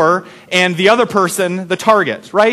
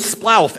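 imitated splash. Shown as a demonstration. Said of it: "the actual sound was splouf".

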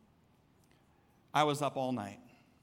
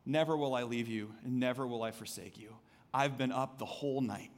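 soft voice of God; 4 semitones lower, 4 dB quieter than usual. Retold or imitated. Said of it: "God says".

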